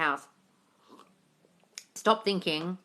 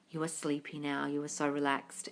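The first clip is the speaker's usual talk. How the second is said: soothing sleepy voice; 6 semitones lower, 10 dB quieter than usual. Shown as a demonstration. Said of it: "I can do some relaxation nighttime".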